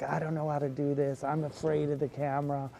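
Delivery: half-hearted pleading, slowing on please; mild mock panic, clinging and whiny; mock panicked begging. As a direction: beg your friend not to leave you, hammed-up. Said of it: "kicking and screaming".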